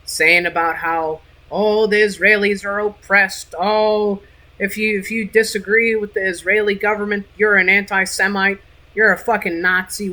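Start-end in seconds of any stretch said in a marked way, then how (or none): 1.5-10.1 mocking whine. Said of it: "don't come to me with your crocodile tears".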